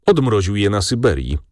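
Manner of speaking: usual speaking voice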